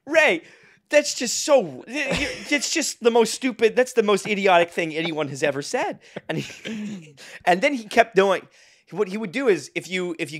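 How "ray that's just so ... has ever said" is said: higher, mock-incredulous protest; retold incredulous laughter. Laughing at the host's stupid remark, retold incredulity. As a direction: push the pitch up as if struggling with laughter. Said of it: "I would be laughing in hysterics".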